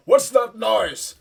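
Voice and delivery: loud, high, drawn-out holler; startled call. Acted. People coming out of the compound, hollering in alarm.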